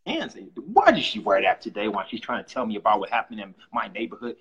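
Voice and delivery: nitpicky viewer. Retold or imitated. Mocking a nitpicky news viewer.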